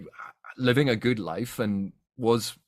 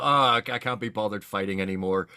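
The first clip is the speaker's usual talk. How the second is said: mock immortal monster; 4 dB louder than usual. Joking to the host, a lightly mocking weary monster voice. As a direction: play a bored undead giving up the fight for archaeology. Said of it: "What do the Talana Mas do".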